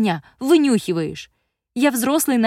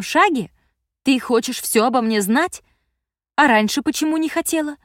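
higher, louder furious rant of a grown daughter; angry teen daughter; 6 semitones higher, 4 dB louder than usual. A narrator's reading. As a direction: snap back at a controlling mother. Daughter's accusing tirade.

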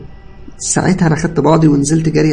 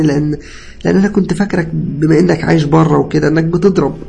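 high, loud, distressed pleading; tearful confession; 7 semitones higher, 5 dB louder than usual. A narrator's reading. Cousin confessing prank to patient, tearful pleading. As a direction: confess guiltily, stumbling and upset. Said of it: "اتكلم ابن خالتي وهو بيعيط".

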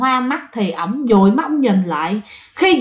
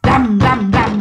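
imitated banging; much slower than usual. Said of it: "nghe tiếng đập".

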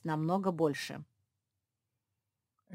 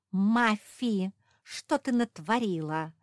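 loud, higher reproach; stamping angry; 5 semitones higher, 7 dB louder, slower than usual. A narrator's reading. Josie stamps at Mafi, angry scolding. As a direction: scold her hard. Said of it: "затопала Жози".

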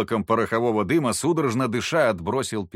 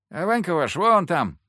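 put-on excited boy; 8 semitones higher, 4 dB louder than usual. A narrator's reading. Boy Kotka announces.

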